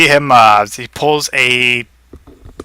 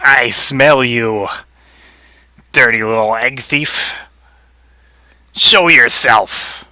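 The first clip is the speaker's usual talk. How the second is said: slow, stalking taunt; mildly hammed-up slow threat; lightly voiced menacing rabbit; slower than usual. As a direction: draw it out as if sniffing out prey. Rabbit hunts the hidden egg thief.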